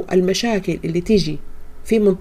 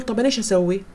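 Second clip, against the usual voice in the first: quick helpless complaint; 4 dB quieter, faster than usual. Retold or imitated. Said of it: "ممكن واحدة تقول".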